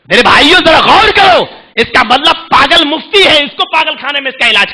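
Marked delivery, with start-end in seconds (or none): 0.1-1.4 rallying call. Real, not acted. Preacher rallies congregation.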